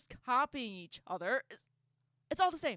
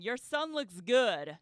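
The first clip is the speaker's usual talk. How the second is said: slow, louder, drawn-out quoting; emphatic repeat; 7 dB louder, slower than usual. Retold or imitated. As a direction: quote it loudly and slowly, word by word. Repeats creepy comment for emphasis.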